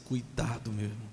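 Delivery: normal talking voice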